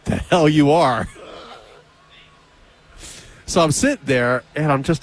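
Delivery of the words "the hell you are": slow, drawn-out retold disbelief; disbelieving. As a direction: stretch it out in mock disbelief. Acted disbelief at the newcomer.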